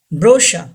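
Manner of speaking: brochure as "BRO-sha", no R at the end; brochure, stressed first, ending in "sha"; silent final R. Shown as a demonstration. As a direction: say brochure with CH as "sh" and drop the last R. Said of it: "R is not pronounced".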